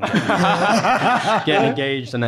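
the words spill out between laughs; cracking up at the story; laughing. Real, not acted. Laughing retelling gaffer's rant.

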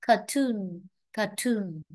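"cartoon" with the weight on TOON; stress on second syllable. Shown as a demonstration. Teacher drills word stress in cartoon, stress on second syllable. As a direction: model "cartoon" as car-TOON. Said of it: "Ta chú ý về trọng âm".

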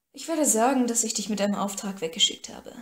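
snappish at first, then settling; irritated. Acted. Paris annoyed by Cora's question, mildly irritated. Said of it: "sagte Paris gereizt".

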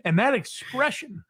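creepy, intimate fake therapist; sleazy mock shrink. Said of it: "the most disgusting therapist voice".

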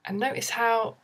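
soft guided-meditation voice with long pauses; guided grounding exercise. Shown as a demonstration. Guiding viewers to get grounded in the body, softly.

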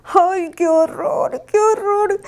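lamento agudo y lento, un toque furioso; horrorizada, sin exagerar el volumen; grito enfurecido. Acted. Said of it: "gritó enfurecida". (la Yeti ve su estatua, horrorizada y agudo)

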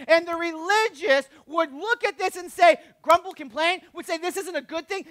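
high-pitched, driving sermon delivery; impassioned preaching. Real, not acted. Preacher voicing the religious people's objection, impassioned.

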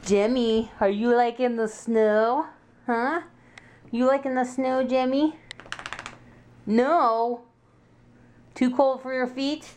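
talking to the dog. Real, not acted.

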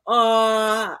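a tender collective aww, mimicked; audience "aww". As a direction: imitate a theater audience cooing. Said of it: "everyone in the whole theater is going".

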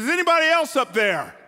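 loud, high, comic shout upward; panicked shout. Acted. Dangling man yells up at the sky, comic panic. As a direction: yell skyward for anyone else.

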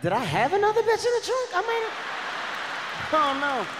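spiral into comic panic; mock panicked self-doubt. Boyfriend wondering if he forgot another woman in the trunk, mock panic. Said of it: "I was like".

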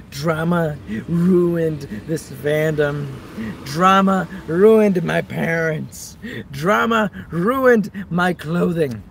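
slow, overdramatic proclamation; hammed-up brooding villain lines; mock dramatic. Dramatic villain-style rant.

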